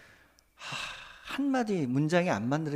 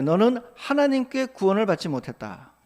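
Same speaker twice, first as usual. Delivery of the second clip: mock taunt; 4 semitones higher, 3 dB louder than usual. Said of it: "이런 조롱을 한다는 거예요".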